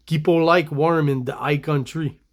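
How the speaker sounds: put-on French Canadian speaking English; French Canadian accent. Trying the comic character's stereotyped line, French Canadian accent. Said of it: "French Canadian speaking English accent".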